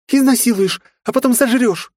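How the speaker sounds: very high, loud panicked scream; terrified shriek. A narrator's reading. Frightened girl screaming the demon away.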